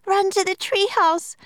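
high, loud frantic shout; panicked cry. A narrator's reading. Annie urges Jack to flee the ants, frantic shout. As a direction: yell it, urging him to flee. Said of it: "cried Annie".

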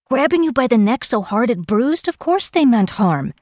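high-pitched indignant snap; snapping. A narrator's reading. Kel rejects the maid's excuse, snapping. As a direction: snap back, outraged on the girl's behalf. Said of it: "snapped Kel".

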